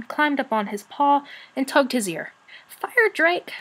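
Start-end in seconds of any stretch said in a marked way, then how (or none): 2.7-3.5 high, urgent call of the name; storybook shout, held back in volume. A narrator's reading. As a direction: call out to wake a sleeper. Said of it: "she shouted".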